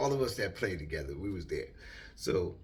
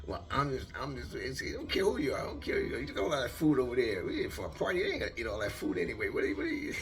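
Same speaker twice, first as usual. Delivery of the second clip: high, rushed mock tirade; going off, imitated; 6 semitones higher, 4 dB louder, faster than usual. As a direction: imitate a friend ranting, tripping over his words. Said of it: "He went completely off, man".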